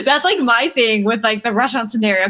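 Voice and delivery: ordinary talk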